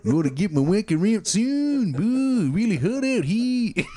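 put-on Australian accent. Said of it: "a singer doing an Australian accent".

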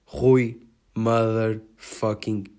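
slow build to a loud shout; hype announcer. Pretend. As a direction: announce him like a boxing champion. Hyped announcement of a name. (anúncio épico em crescendo)

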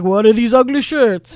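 mock outrage. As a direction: act out a mascot's loud indignation. Acts out the mascot's mimed reaction.

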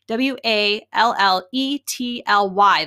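W A L L E T L Y said slowly, letter by letter; spelled out letter by letter. Shown as a demonstration. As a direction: spell W A L L E T L Y out, each letter separate. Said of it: "And you spell Walletly".

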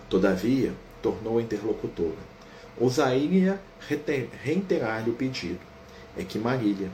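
slow, calm book narration; story narration. A narrator's reading. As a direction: narrate the scene gently and evenly. Reads the mother's plea.

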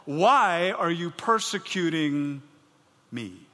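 loud, slow call of the Lord; booming heavenly voice. Acted. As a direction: call his name with divine weight. Preacher voicing the Lord calling.

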